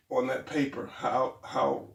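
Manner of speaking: usual speaking voice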